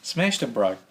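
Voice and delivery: light New Zealand accent; Kiwi accent. Shown as a demonstration. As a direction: say it like a Kiwi bloke. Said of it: "Can you say it with a Kiwi accent?".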